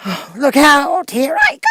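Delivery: a witch screaming as she melts away; witch's final shriek. Acted.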